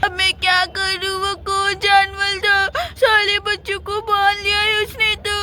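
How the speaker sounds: a touch of trembling fear; scared and alone, wondering what to do; frightened. Acted. Chatpati frightened after the kids are taken, trembling. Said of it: "चटपटी बहुत ज्यादा डरी हुई खड़ी होती है".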